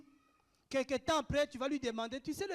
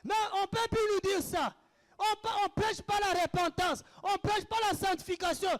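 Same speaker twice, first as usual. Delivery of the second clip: usual speaking voice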